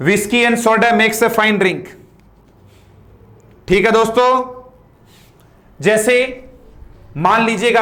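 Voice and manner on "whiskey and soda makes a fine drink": slow, every word given weight; slow model reading. Shown as a demonstration. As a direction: read the whole line slowly for the class. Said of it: "ये रहा दोस्तों". (धीमा आदर्श वाचन)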